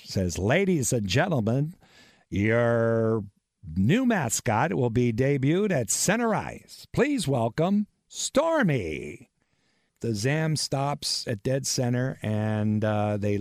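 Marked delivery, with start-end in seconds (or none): 0.4-9.3 lightly voiced arena announcer, slow and drawn out; a gentle parody of a booming announcer; impersonation of Mark Roberts. Radio man mimics Mark Roberts announcing the mascot, slow and grand. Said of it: "impersonation of Mark Roberts".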